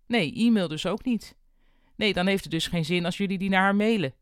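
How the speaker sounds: chirpy and efficient on the line; busy receptionist sorting things out by phone; cheery receptionist on phone. Acted. Noor calls support on phone.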